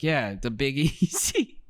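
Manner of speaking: mock accent, claimed as New Orleans; Tommy's accent. Man explaining his accent at an audition, mock accent. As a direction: imitate a foreign accent passed off as Southern. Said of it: "Do you have an accent".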